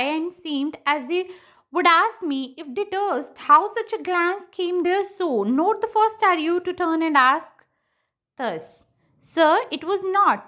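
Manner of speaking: slow, phrase-by-phrase verse reading; poem recitation. Acted. Teacher quoting the duke's monologue to students, slow recitation. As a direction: read the verse out with measured pauses.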